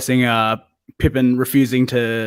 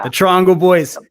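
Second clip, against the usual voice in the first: excited call; 7 semitones higher, 6 dB louder than usual. Real, not acted. Joking about the quote.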